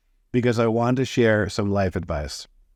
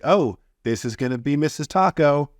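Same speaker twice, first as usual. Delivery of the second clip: raised, hopeful imagined thought; hopeful inner thought; 6 semitones higher than usual. Retold or imitated. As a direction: think it with naive certainty. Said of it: "you're gonna think".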